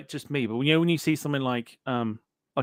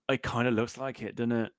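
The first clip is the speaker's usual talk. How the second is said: whispered aside; 6 dB quieter than usual. Real, not acted. Quiet aside about nudist beach.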